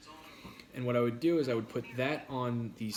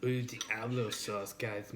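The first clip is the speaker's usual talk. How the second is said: slow, softer sultry purr; sexy voice; 2 semitones lower, 4 dB quieter, much slower than usual. Pretend. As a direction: drawl it out, slow and soft. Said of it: "makes me talk in my sexy voice".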